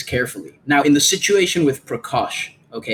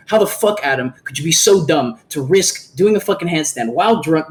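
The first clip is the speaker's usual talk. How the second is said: angry outburst. Pretend. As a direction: blow up at him in exasperation. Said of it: "I could get mad".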